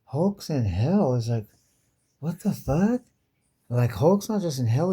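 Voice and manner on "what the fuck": high shocked squeal. Retold or imitated. Mock outburst.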